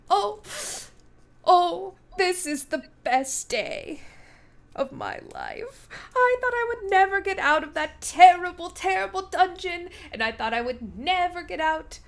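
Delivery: high, excited gushing; overjoyed. Acted. Freed knight gushes to rescuers, high and excited. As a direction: gush like it's the best day ever. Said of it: "He's like".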